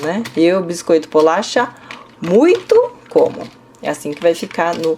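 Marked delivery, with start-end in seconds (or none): 0.4-3.4 slow, muito como said last and louder; Korean order demo. Shown as a demonstration. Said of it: "E se eu quiser dizer". (muito como devagar e enfático)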